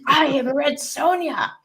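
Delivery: high, slow, booming warrior-woman boast; Red Sonja. Retold or imitated. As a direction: proclaim it like a fearless barbarian queen. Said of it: "quoting Red Sonja in reply".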